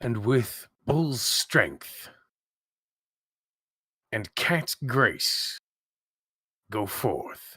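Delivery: theatrical whisper. Dalvana casts a spell and speaks to Sawyer; whispering. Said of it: "he whispers to Sawyer".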